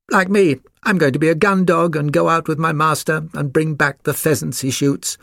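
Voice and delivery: high-pitched, boastful puppy voice; eager spaniel puppy. A narrator's reading.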